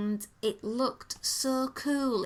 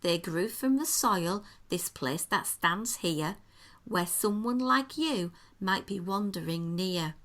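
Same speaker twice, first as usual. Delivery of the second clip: lightly voiced storyteller, measured phrasing; 2 semitones lower than usual. Host reading the menu's story to co-host, gentle storyteller voice. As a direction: read it as a rhyming fairy-tale introduction. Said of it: "can I put on my storyteller voice".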